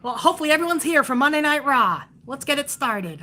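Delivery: high, limp mock commentator; sing-song mockery of a bland play-by-play voice. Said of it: "And he's like".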